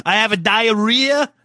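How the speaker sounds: put-on slow, light Brazilian accent. Co-host copying the client for a drop, in a Brazilian accent. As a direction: repeat the client's diarrhea line. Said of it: "record that for us so we could use it as a future drop".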